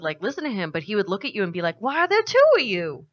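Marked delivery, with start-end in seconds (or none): 1.8-3.1 high, put-on voice of a brain-damaged orc; crazy orc. Orc seeing a second figure beside the player, crazed bafflement. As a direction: imitate a baffled, nutty orc. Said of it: "'Cause he was crazy".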